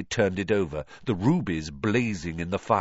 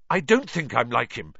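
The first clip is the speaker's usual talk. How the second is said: a touch louder, blurted denial; louder than intended; 4 semitones higher, 4 dB louder than usual. Acted. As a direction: push it out a bit too loud. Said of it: "more loudly than he'd intended".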